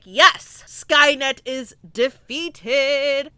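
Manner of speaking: a loud burst of yes, then slow and drawn out; mock triumphant cheer. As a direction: celebrate victory a bit hammed-up. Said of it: "and I'm like".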